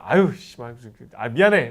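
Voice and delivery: mildly loud grumbled curse into a quick apology; mock cursing. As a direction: act out swearing at a buddy, then saying sorry. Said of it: "야, 욕하고 막 그러다".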